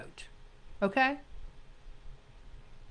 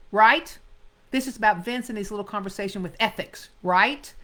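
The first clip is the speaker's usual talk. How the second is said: quick, clipped detective line with a loud right; blunt detective; 4 dB louder than usual. Shown as a demonstration. Teacher reads the detective's exact line, brisk and pointed. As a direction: fire it off and snap the right. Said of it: "he says".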